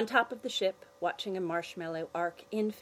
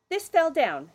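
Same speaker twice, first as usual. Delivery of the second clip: put-on high, loud innocent girl; sweetly innocent excuse; 9 semitones higher, 9 dB louder than usual. Girl speaking.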